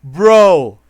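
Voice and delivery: loud, high "Bro!" of disbelief; real outraged shout. Real, not acted. Streamer yelling at the game's ending, loud and outraged. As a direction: blurt it out in outrage.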